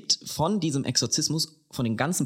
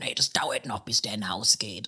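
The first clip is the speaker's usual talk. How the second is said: Hessian dialect retort; 4 semitones lower than usual. Retold or imitated. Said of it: "dann sagt sie im Dialekt".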